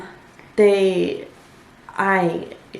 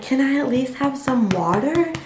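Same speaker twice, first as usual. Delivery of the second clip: imitating pleading; 7 semitones higher than usual. Begging the nurse for water.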